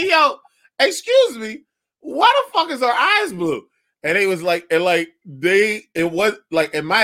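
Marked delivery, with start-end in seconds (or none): 0.1-3.7 high-pitched hammed-up disbelief; mock outrage. Dad demanding why baby's eyes are blue, high mock outrage. Retelling asking nurse, exaggerated.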